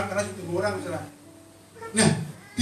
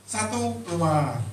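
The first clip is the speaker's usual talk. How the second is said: drawn out; much slower than usual. Retold or imitated. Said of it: "Loh, kayak ketoprak".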